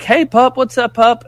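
high, sing-song voice for the dog; talking to a dog. Retold or imitated. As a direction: coo at the pup like greeting a pet. Greeting a friendly dog.

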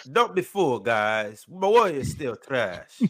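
put-on Jamaican accent. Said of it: "sound like a vampire when you try and do a Jamaican accent".

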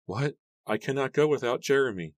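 high, dazed protest; bewildered high-pitched objection; distraught refusal. A narrator's reading. Distraught Mary refuses to leave.

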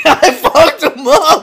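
slow, high, laughing echo. Real, not acted. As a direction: laugh the words out. Echoing friend while laughing.

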